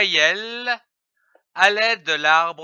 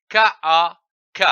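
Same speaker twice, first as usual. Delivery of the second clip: quick spelling; 5 dB louder, much faster than usual. Shown as a demonstration. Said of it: "Je lis un mot avec les syllabes".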